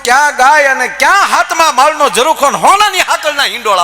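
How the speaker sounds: high, loud exclaiming with a laugh; rising preaching climax. Real, not acted. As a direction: build the wonder to full voice. (ઊંચા અવાજે ઉત્સાહી ઉદ્ગાર)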